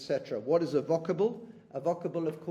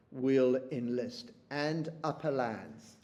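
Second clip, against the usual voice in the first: poem reading; slower than usual. Shown as a demonstration. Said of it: "He says".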